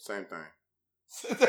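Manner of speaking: low mock Chinese accent. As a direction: put on a joking Chinese accent. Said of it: "said that in his Chinese voice".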